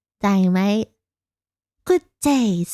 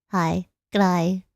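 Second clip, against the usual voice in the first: Australian greeting; 3 semitones lower than usual. Shown as a demonstration. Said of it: "So hello would be like".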